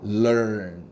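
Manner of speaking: LEARN as one smooth 럴-언 glide; linked in one go. Shown as a demonstration. Teacher repeats for students to copy, learn linked in one go. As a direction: let 럴 melt into 언 in learn. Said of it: "이어서 발음한다고 생각하면 돼요".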